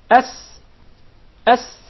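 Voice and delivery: S made behind the top incisors; tongue-tip sin. Shown as a demonstration. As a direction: demonstrate the S of sin. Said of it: "the letter sin comes from the tip of the tongue".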